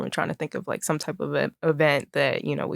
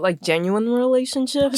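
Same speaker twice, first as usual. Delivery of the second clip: "genuine" leaned on, raised in pitch; stress on genuine; 7 semitones higher than usual. Real, not acted. Clarifying which relationships count as a skill, "genuine" emphasized. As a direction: put clear emphasis on the word "genuine". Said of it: "put a emphasis on genuine".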